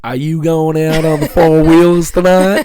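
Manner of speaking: lightly put-on Southern American accent; Southern accent attempt. Shown as a demonstration. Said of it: "I need to hear your best Southern accent".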